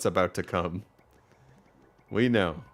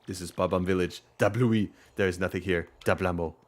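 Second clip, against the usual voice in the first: put-on loosely Russian-accented villager; mild mock-Russian character voice; rough Russian accent. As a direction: greet in an attempted Russian accent. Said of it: "I can't do a Russian accent".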